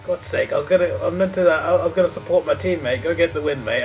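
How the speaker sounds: frustrated. Real, not acted. Frustrated outburst at teammate.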